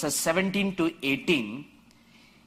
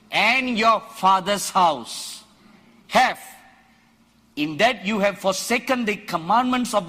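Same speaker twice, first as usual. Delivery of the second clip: louder, firm accusation; bold reply; 5 dB louder than usual. Acted. Elijah answering King Ahab, louder and defiant. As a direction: stand your ground and accuse the king.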